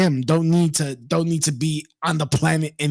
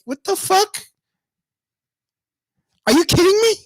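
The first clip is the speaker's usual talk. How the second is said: higher, louder disbelieving yell; outraged yell; 14 semitones higher, 5 dB louder than usual. Real, not acted. Vlogger reacting to the clerk story, outraged yell.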